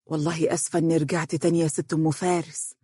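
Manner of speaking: quick, subdued apology; sheepish, hurried neighbour; embarrassed. Acted. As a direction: apologise bashfully to your neighbour. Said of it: "وهي تقول بخجل واضح".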